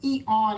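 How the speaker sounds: mock donkey "Ee, aw" braying in a speaking voice; a playful imitation of a donkey's "Ee, aw". Teacher mocks off-key singing like a donkey, playful bray. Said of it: "Like a donkey also".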